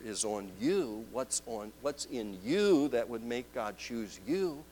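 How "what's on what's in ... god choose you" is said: usual speaking voice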